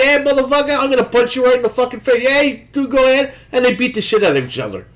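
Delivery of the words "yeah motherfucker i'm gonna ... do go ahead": mock Roman Reigns. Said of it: "And Roman Reigns like".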